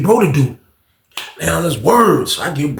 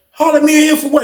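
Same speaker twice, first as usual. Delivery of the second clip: higher, defensive question; suspicious Zoe; 10 semitones higher, faster than usual. Retold or imitated. Zoe to the old fighter, a high suspicious challenge. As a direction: push back suspiciously, pitched up.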